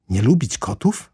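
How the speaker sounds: mildly affronted mouse cry; a touch of piercing indignation; high piercing voice. A narrator's reading. Offended mouse answers Alice, lightly piercing. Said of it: "zawołała myszka wysokim, przejmującym głosem".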